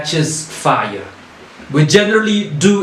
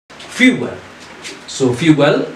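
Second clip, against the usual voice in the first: Fuel with the weight on FU, the second syllable light; first syllable stressed; much slower than usual. Shown as a demonstration. Teacher showing students where Fuel takes its stress. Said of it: "we stressed on the first syllable".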